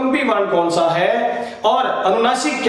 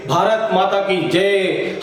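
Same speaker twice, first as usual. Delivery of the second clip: demonstrating a long, resonant chant; drawn-out slogan cry; much slower than usual. Shown as a demonstration. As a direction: stretch it out like a slogan. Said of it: "एक लंबे नाद के साथ एक ऊंचे आवाज में".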